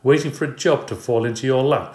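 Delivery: wife yelling at her jobless husband. Acted. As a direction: jab at his idleness. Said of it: "yelling at Mister Payne".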